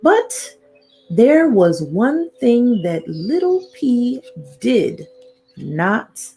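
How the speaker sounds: storybook narration with suspenseful pauses; reading to children. A narrator's reading. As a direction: lead little listeners towards a secret. Reads picture book to children.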